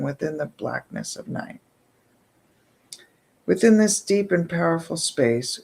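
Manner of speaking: measured ceremonial reading voice; solemn invocation to the night goddess; ritual invocation. Acted. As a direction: intone it like an evening prayer. Reads ritual invocation aloud.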